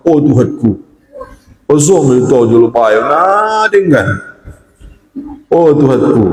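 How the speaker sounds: mock prayer in a Batak accent. Student praying to God, in a Batak accent. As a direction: pray aloud like a Batak speaker, drawing out words. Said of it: "Bahasa Batak pun kau".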